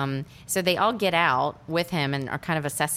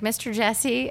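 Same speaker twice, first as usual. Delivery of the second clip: timid call; 7 semitones higher, slower than usual. Retold or imitated. Girl calls out.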